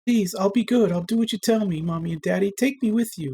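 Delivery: put-on high, tearful child's pleading; desperate plea. A narrator's reading. Feverish girl pleading with her vanished parents, tearful. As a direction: promise anything so they stay.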